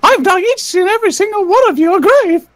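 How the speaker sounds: lightly voiced gleeful threat; mock-sinister cartoon mouse; a hint of a stalker Mickey; creepy Mickey Mouse voice. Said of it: "I used to do Mickey Mouse impressions".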